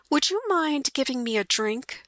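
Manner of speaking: light wife voice, politely asking; lightly voiced wife. Mary's voice asking policeman.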